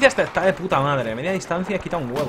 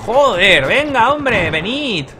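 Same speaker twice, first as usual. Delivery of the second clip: calling teammates; 7 semitones higher, much slower than usual. Real, not acted.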